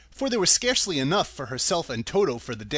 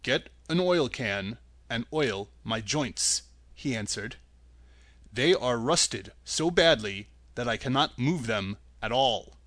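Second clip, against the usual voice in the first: Tin Woodman voice; 4 semitones lower than usual. Acted.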